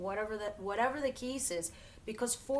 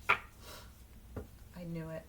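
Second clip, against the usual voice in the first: whispered aside; 5 semitones lower, 6 dB quieter, much slower than usual. Real, not acted. Muttering to herself over the cards.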